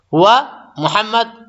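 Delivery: slow, drawn-out Arabic model words; slow demo phrase. Shown as a demonstration. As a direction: draw the words out for the class. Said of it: "بولتا ہے".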